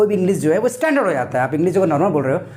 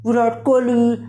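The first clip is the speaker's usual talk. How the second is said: higher, twisted-mouth mock American; Donald Trump; 5 semitones higher, slower than usual. Teacher imitating Trump saying a cricketer's name, mock American accent. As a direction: mangle the name as if the mouth were half paralysed. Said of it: "मुंह ऐसे करता है जैसे मुंह में लकवा".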